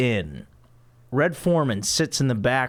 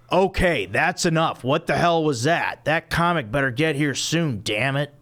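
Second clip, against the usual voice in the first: fuming Red voice; 3 semitones higher than usual. Acted.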